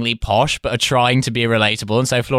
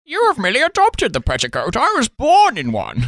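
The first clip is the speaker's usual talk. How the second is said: mock Bane; 9 semitones higher than usual. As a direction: ham up the villain line in a silly posh voice. Parodying Bane line, posh.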